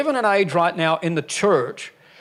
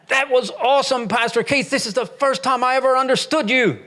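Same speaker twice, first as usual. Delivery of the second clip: imitating an English accent; 9 semitones higher than usual. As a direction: play the old English churchgoer with a big grin. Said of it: "and he said".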